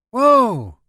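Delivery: sudden loud high cry of alarm; a loud startled driver at a sudden crash; startled whoa. A narrator's reading. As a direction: yelp as the road is blocked. Sudden pileup ahead while driving.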